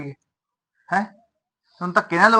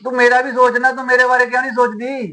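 raised, higher-pitched protest to his mother; pleading complaint; 5 semitones higher than usual. Acted. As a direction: push back hard, voice up. Son argues with his mother. (ਮਾਂ ਨਾਲ ਬਹਿਸ ਕਰਦਿਆਂ ਉੱਚੀ ਸ਼ਿਕਾਇਤ)

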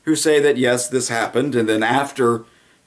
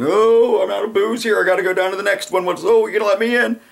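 mock drunk whine, much higher; drunk bar-crawler voice; 9 semitones higher than usual. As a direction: play a tipsy barfly looking for the next drink. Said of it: "Nancy Pelosi sounds a lot like that".

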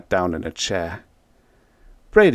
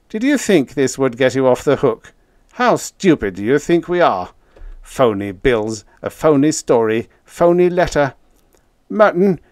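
louder, higher, indignant telling-off; scornful accusation; 4 semitones higher, 5 dB louder than usual. A narrator's reading. Brady accusing Merton of a phony story, scornful. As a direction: accuse him of being a phony, emphatically.

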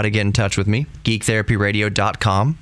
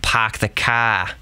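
slow, R-dropping Boston accent; slower than usual. Shown as a demonstration. Host demonstrating regional accents, slow Boston accent. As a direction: drop the Rs like a caricature Bostonian. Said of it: "Boston accent".

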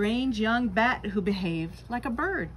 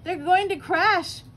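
higher, louder, alarmed gasp; 9 semitones higher, 7 dB louder than usual. A narrator's reading. Stella Luna gasping as her friends fall, higher and louder. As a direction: gasp it out in fear. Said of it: "gasped Stella Luna".

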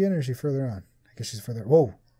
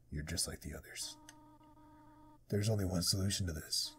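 demonic voice; 5 semitones lower, 11 dB quieter than usual. Acted. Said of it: "I'm giving her a demonic voice".

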